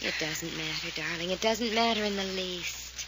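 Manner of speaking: soothing. Acted. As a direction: lull her before the fall. Fay soothes Cherry at edge.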